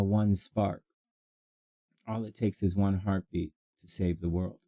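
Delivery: low, hushed inspirational delivery; motivational speech. Acted.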